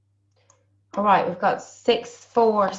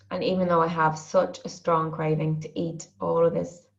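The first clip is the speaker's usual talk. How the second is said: tapping setup statement. Shown as a demonstration. Coach leads the group through the tapping setup, a measured recital. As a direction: recite the setup phrase steadily and calmly. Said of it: "and we'll just say".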